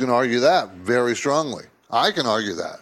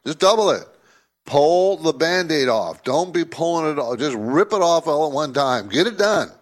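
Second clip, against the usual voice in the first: mock advice to Fed; 3 dB louder than usual. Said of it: "a good argument saying".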